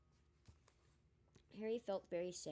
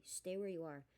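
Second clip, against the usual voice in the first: hoarse. Acted. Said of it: "in the same hoarse voice".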